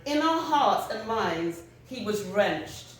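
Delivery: measured literary reading, phrase by phrase; poem recitation. Acted. Writer sharing a piece about a funeral, measured recitation. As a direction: read it out with deliberate pauses between images. Reads own piece aloud.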